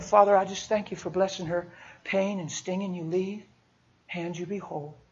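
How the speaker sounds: soft prayer, fading away at the end; quiet prayer. Shown as a demonstration. Demonstrating a quick prayer over a stranger's hand, hushed.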